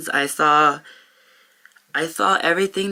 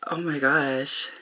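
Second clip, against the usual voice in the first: overcome, slow; 5 dB quieter, slower than usual. Real, not acted. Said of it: "Sorry, you guys".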